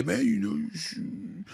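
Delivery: high nagging mock voice; mocking fans who tell him not to root; mocking critics. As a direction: mimic the doubters whining. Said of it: "you got a lot of people out there".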